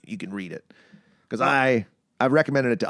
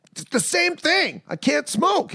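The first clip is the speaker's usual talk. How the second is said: exasperated; slower than usual. Retold or imitated. Cigarette tastes wrong, exasperated.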